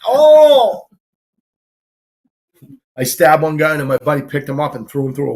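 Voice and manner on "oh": high, loud shocked cry; loud surprised oh. Retold or imitated. Bouncer reacting as a guy goes through a window, shocked. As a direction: yelp in surprise.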